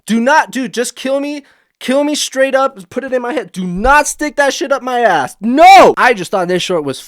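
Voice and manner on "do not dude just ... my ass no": rising to a much louder final no; mock desperate begging; desperate pleading. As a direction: bargain for your life in a panic. Begging the alien for mercy.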